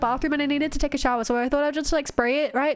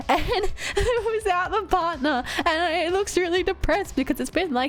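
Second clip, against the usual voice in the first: higher, laughing and near crying; real teary laugh; laughing near tears; 4 semitones higher than usual. Real, not acted. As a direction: tell it while welling up. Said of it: "oh God, I'm gonna cry".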